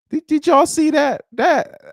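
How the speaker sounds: high disbelieving cry, then slow; genuinely stunned, dragging it out; shocked exclamation, stretched; bewildered. Real, not acted. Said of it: "I was bewildered".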